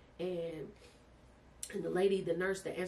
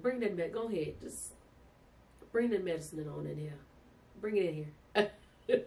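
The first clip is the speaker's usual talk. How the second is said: demanding relief. Retold or imitated. In labor, to the staff, a desperate demand for medicine. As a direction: insist they bring the medicine now.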